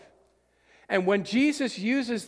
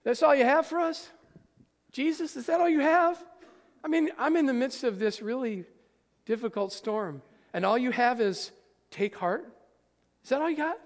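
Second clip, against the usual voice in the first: mock complaint; 4 semitones higher than usual.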